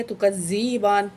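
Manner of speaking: تُكَذِّبَانِ with a soft zal, not a hard za, and the ba held one alif long; تُكَذِّبَانِ, soft dhal and lengthened ba. Shown as a demonstration. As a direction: read تُكَذِّبَانِ gently. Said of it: "سختی سے نہیں پڑھنا اس کو، نرمی سے پڑھنا ہے".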